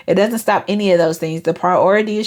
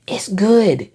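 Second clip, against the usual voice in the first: sincere, understanding. Retold or imitated. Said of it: "And mean it".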